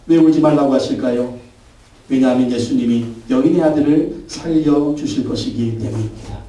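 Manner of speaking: ordinary talk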